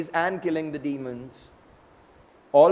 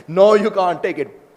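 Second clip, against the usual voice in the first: loud, slow, higher-pitched NO; acted emphatic refusal; 5 semitones higher, 9 dB louder than usual. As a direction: forbid it forcefully, drawing it out. Final refusal of Krishna.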